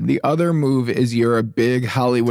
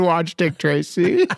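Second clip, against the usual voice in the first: slow announcement; 3 semitones higher, slower than usual. Shown as a demonstration. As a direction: announce it slowly to listeners. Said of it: "We ask everybody in our audience".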